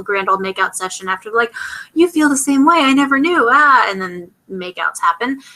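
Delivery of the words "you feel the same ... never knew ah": higher, hammed-up swoony declaration; mock lovestruck gush. Recapping the kiss scene, mocking the lovers' gushing confession. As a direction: play the lovers, gushing over the top.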